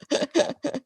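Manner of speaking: high burst of giggles; embarrassed laugh. Real, not acted. Teacher interrupted by a technical slip, embarrassed laugh. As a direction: laugh helplessly at your mistake. Laughs at accidental button press.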